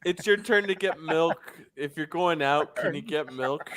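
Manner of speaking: sketch a nagging roommate asking for milk; voicing the roommate. A podcaster voicing Bill the roommate, light put-on voice. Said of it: "He's, he's like".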